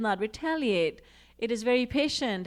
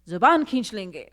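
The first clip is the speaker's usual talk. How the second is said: mock threat; 2 semitones lower, 6 dB louder than usual. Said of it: "we say".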